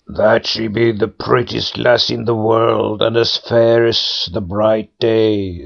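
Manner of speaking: bestow the blessing like a spirit; pool head voice. A narrator's reading. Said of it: "said the first head".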